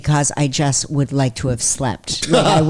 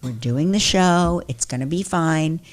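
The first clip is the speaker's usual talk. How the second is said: calm firm producer. Retold or imitated. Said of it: "you were like".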